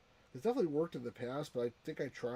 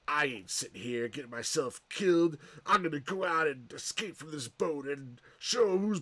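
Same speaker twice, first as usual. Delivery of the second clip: Kirk Douglas swagger; 2 semitones higher, 4 dB louder than usual. Retold or imitated. Kirk Douglas character voiced in recap.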